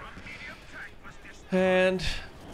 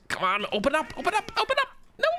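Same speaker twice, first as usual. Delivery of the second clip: high, pleading come on open up; urgent pleading; 14 semitones higher, much faster than usual. Real, not acted. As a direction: beg the gun to fire, rising. Urging units to fire.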